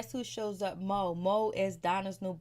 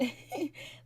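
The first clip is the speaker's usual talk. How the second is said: quiet, high giggle; amused laugh; 8 semitones higher, 5 dB quieter than usual. Real, not acted. Reviewer amused by the baby daddy, amused laugh. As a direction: let out a soft, high chuckle.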